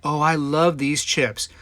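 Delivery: put-on slow, savoring old-lady gush; delighted older lady. Retelling the older lady in the store, slow gushing voice. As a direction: coo over the chips like a sweet old lady. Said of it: "She goes".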